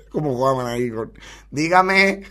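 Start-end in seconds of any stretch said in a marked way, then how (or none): 1.5-2.2 raised-pitch mock reply; playful mimicked call back; imitated answering call. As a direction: answer like the neighbour, half laughing. Mimics the balcony ad's answer.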